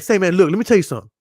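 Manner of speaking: quick, no-nonsense talking-to; straight-talking parent. Acted. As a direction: act out levelling with your kid, briskly. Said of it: "I talk to my kids just like that".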